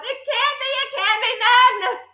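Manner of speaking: high, panicked disbelief; terrified denial. A narrator's reading. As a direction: deny it in dread. Trunchbull terrified.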